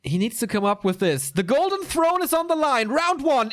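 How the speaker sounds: ordinary delivery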